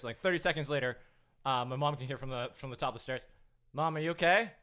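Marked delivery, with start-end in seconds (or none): 3.7-4.5 raised voice to someone upstairs; half-hearted shouted check-in; imitated calling out. Little brother calling to fallen mom, raised voice.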